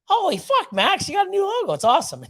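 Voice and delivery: high, excited retold shout of praise; excited reaction. Retelling seeing Max's new logo, excited. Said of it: "I'm like".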